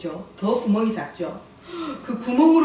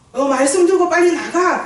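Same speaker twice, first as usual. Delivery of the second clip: loud, higher-pitched hurry-up command; barked order; 7 semitones higher, 7 dB louder than usual. Acted. Preacher mimicking an order to rush out with the word, barked. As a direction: bark it as a brusque order. Acts out a brusque marching order.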